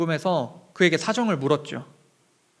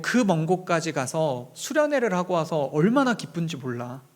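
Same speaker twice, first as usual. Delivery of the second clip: God's comforting voice. Retold or imitated. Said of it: "하나님이 저에게 이렇게 말씀하시더라고요".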